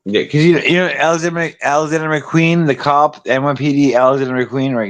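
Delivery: tipsy, loose talk. Real, not acted. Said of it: "I'm really drunk right now".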